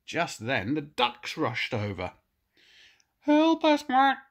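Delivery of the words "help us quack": high, loud quacky duck voice; panicked quacking duck. Acted. Ducks begging Fergus for help, high panicky quacking. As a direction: quack it out in a flap. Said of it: "they quacked".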